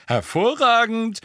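gleeful Hervorragend, drawn out with delight; cheerful. A narrator's reading. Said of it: "sagte Fred vergnügt".

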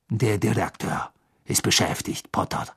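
understated gloating refusal; cool spite. Acted. Snape refusing Harry access to the headmaster, coolly spiteful. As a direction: refuse him coolly, enjoying it.

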